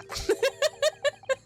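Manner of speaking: a high squealing laugh; real squealing laugh. Real, not acted. Laughs at game.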